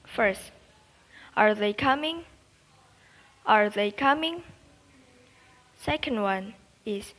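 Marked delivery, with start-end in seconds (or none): 1.4-2.2 "are they coming?" rising on coming; yes-no question with a rising end; rising tune. Shown as a demonstration. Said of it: "list up at the end". 3.5-4.4 "are they coming?" rising on coming; yes-no question with a rising end; rising tune. Shown as a demonstration. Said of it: "list up at the end".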